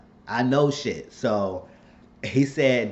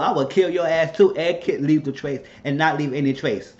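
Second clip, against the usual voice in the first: mock furious threat, a little higher; heated threats; 4 semitones higher than usual. Viewer pretending to be Catherine threatening her son, heated. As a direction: play the heated tough talk you'd give if you were Catherine. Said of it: "But I just got heated".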